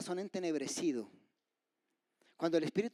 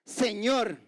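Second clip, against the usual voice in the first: one loud, raised cry; 4 semitones higher, 7 dB louder than usual. Acted. Preacher voices dying Stephen calling to God, loud cry. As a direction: call out to God, then stop. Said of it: "clamó a gran voz".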